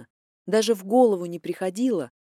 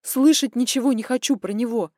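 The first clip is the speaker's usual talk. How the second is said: harsh refusal; 3 semitones higher, 5 dB louder than usual. Acted.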